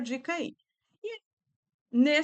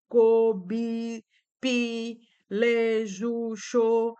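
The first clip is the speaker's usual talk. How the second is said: each syllable "co", "bi", "pi", "le", "ju", "xô" said separately with a pause between; slow, separate syllable calls; syllable drill; 3 dB louder, much slower than usual. Shown as a demonstration. Teacher modelling a syllable drill for pupils, separated syllables. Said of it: "trabalhar a sílaba".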